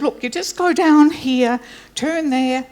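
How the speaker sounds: a hint of a Scottish brogue giving directions. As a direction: retell the husband's directions in a mild Scottish brogue. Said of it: "in this beautiful Scottish brogue".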